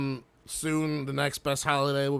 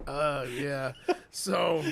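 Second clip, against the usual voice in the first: laughing aftermath; 2 semitones higher, much slower than usual. Real, not acted. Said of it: "laughing after bit".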